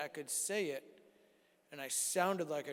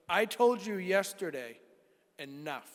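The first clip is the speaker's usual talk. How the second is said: retold stern scolding; 5 dB louder than usual. Wife scolding husband over his voice, retold sternly. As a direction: imitate a fed-up telling-off. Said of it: "she scared me".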